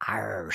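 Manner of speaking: "r" said as a low, hard pirate R; emphasized R. Shown as a demonstration. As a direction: lean on the "r" like a pirate. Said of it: "They emphasized the".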